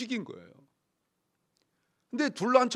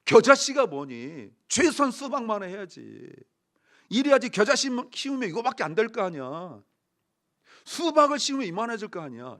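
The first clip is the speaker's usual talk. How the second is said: mock scolding; 2 semitones higher, 4 dB louder than usual. Pastor playing Jesus telling off a humble follower, mock scolding. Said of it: "예수님이 혼내시면서".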